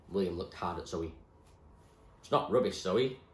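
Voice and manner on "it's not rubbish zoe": firm. Acted. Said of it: "he had said firmly".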